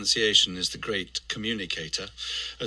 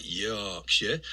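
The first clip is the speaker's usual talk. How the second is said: Yorkshire accent. Shown as a demonstration. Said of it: "got one of the predominant sounds in it".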